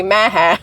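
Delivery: Maha said like MAGA, "MAA-hah"; MAGA-style pronunciation. Shown as a demonstration. Host reasoning from MAGA, Maha pronounced "MAA-hah". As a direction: give Maha the first vowel of MAGA. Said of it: "if it's maga".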